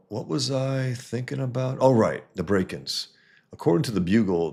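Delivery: Peter's thoughts, lightly acted, a bit livelier; relieved, musing hero reading his own captions; reading Peter's inner voice. Reads Peter's comic thoughts aloud.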